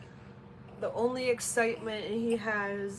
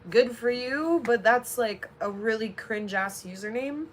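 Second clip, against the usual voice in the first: annoyed; 7 dB louder than usual. Real, not acted. Ranting at a commenter on stream.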